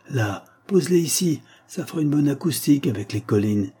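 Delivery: lightly voiced young man giving directions; understated shout to the crew; calling out. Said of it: "cria un jeune homme".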